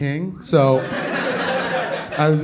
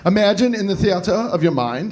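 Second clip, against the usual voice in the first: higher, mock-theatrical invitation; put-on storyteller voice; 4 semitones higher than usual. Comedian sets pilgrim scene for crowd, mock storyteller voice. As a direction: grandly usher them into an imagined scene. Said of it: "that's how I talk now".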